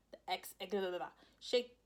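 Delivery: flubbed line dissolving into babble; tongue-tied. Real, not acted. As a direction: stumble on the word, then babble blahs. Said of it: "I can't speak".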